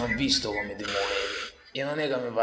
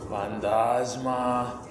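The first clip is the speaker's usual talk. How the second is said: slow solemn ghost-calling voice; mock seance call; much slower than usual. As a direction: call out slowly to the spirit.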